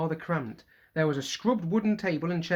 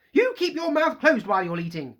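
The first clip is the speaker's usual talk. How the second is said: sharp, louder angry retort; snapped; 6 semitones higher, 7 dB louder than usual. Acted. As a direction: snap at Fred over breakfast. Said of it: "Missus Weasley snapped".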